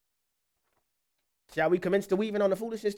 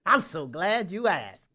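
chuckling; slower than usual. Pretend. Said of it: "imagine me chuckling when they ask you".

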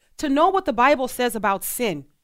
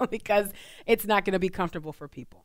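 laughing nervously through the words; uneasy little laugh; 3 semitones lower, 5 dB quieter than usual. Real, not acted. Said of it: "It's just nervous laughter".

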